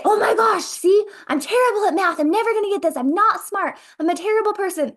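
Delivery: a hammed-up student beating herself up over a math mistake; self-critical panic. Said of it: "if I say".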